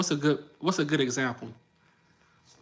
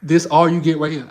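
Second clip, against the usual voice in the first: flirt demo; 10 dB louder than usual. Shown as a demonstration. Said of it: "Let me show you again".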